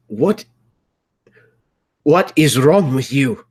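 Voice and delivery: high, loud horrified anger; appalled outburst. Acted. Son appalled at Kadir's deed, high outraged cry. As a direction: burst out in disbelief, high and loud.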